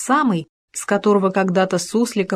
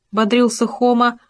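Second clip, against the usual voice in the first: ordinary delivery, nothing marked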